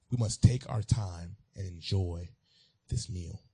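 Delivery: "We must take our time and enjoy this meal" said slowly, each word weighed; slow, deliberate repeat. Shown as a demonstration.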